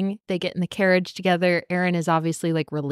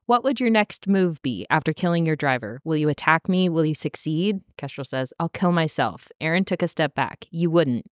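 lower-pitched, even book narration; story reading; 3 semitones lower than usual. A narrator's reading. Podcaster reading the tense carriage dialogue, lightly dramatised narration. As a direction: read the dialogue aloud as written text.

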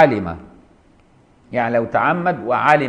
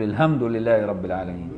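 Sudanese reading of الحمد with a soft h; Sudanese accent; 4 semitones lower, 5 dB quieter than usual. Retold or imitated. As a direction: lightly imitate a Sudanese man reading الحمد. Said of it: "سوداني يقول".

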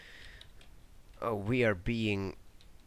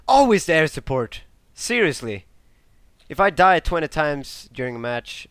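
louder, higher fed-up complaint; irritated rant; 5 semitones higher, 7 dB louder than usual. Real, not acted. Gamer ranting about dying to air support again. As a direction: vent your frustration.

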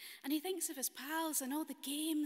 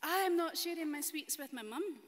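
higher and louder, stubborn refusal; defiant wee boy; 5 semitones higher, 6 dB louder than usual. Acted. Storyteller voicing boy refusing to share with mum, high and loud. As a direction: announce it like a sulky child.

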